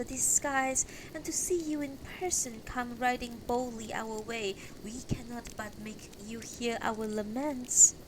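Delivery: lightly voiced humble supplicant; civil woman. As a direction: petition the knight courteously. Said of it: "one a little more civil".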